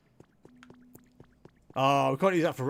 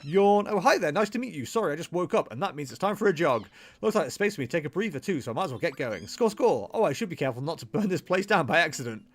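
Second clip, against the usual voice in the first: perky character voice; 3 semitones higher, faster than usual. Acted. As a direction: play a bouncy cartoon bunny. Voices Scorbunny dialogue.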